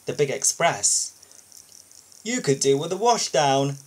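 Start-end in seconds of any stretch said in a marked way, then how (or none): 2.2-3.8 teasing. Acted. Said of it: "teased Spencer".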